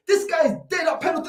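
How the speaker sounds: exasperated yell; fast angry shout. Real, not acted. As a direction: spit it out furious and fast. Ranting about the keeper.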